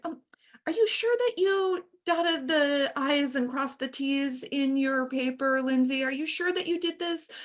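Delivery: mock-sweet doubting question; lightly voiced passive-aggressive colleague; needling question.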